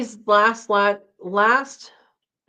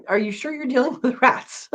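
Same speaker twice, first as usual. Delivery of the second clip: kind gentle laugh; 6 semitones higher than usual. Real, not acted. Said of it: "I'm not laughing at you".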